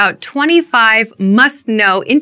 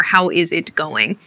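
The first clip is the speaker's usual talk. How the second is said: stiff; 6 semitones lower, 7 dB quieter than usual. Shown as a demonstration. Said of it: "it sounds too stiff".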